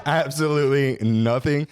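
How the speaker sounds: laughing through the words. Real, not acted. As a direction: chuckle it out, slowly. Teasing laugh during debate.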